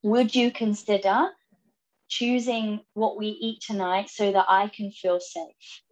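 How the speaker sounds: slow, gentle, careful asking; polite request. Shown as a demonstration. Wife politely asking partner to choose dinner, slow and gentle. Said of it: "that's a very polite way of saying it".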